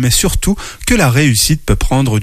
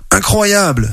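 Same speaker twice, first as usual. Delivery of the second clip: high, astonished cry of wonder; amazed exclamation; 7 semitones higher, slower than usual. Acted. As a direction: gasp it out in amazement. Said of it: "s'exclame l'élan". (s'exclamer, émerveillé)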